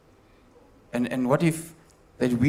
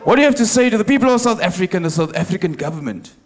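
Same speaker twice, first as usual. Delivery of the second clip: faster, louder reporter repeat; brisk, louder reporter repeat; 3 semitones higher, 4 dB louder, faster than usual. Pretend. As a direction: push the question again harder. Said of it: "can you repeat the question".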